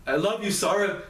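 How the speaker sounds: high, very slow pleading from a voice in pain; desperate begging. A narrator's reading. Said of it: "the faint sound of someone begging".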